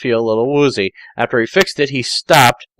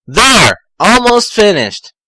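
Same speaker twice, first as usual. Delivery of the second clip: lightly voiced Tails; 8 semitones higher, 4 dB louder than usual.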